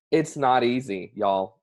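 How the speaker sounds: slow Southern drawl; easy-going Southern y'all; Southern accent. Real, not acted. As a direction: let a little Southern twang slip out. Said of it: "that's my Southern accent coming out".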